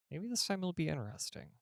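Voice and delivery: the hope breaks through now; eager hope. A narrator's reading. Hopeful thought, repeated.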